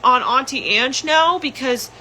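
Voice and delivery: put-on high childlike nephew voice; nephew's voice. Nephew asking about Auntie Ange, high childlike. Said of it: "my nephew was crying because he's like".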